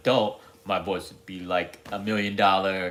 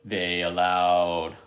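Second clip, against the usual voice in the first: lightly done epic movie-trailer announcer, drawn out; 2 semitones lower, slower than usual. Acted. Imitating a trailer narrator for a coming film, slow and dramatic. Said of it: "my life story in that voice".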